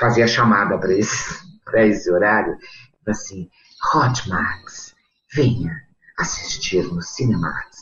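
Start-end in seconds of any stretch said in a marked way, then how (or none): 3.9-7.8 slow, breathy, seductive, sultry late-night announcer voice. Retelling a late-night channel promo: imitating her sultry pillow voice. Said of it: "eu fazia aquela voz de travesseiro".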